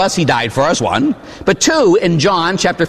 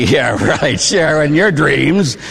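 sarcastic; much slower than usual. Retold or imitated. Parents mocking the kid's question.

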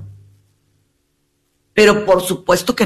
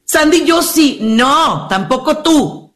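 higher, teasing voice; mock objection; 7 semitones higher, slower than usual. Teasing a viewer who thinks they are the exception, higher.

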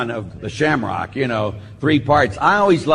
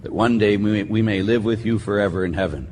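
prayer; 3 semitones lower than usual. Acted. Priest opening Mass with prayer, solemn. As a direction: lead the people in prayer.

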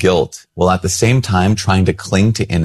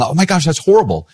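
shocked church lady; 9 semitones higher than usual. Retold or imitated. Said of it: "her saying".

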